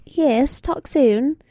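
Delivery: brief sign-off in a put-on English accent. Shown as a demonstration. Co-host saying goodbye to listeners, English accent. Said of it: "do your English accent again".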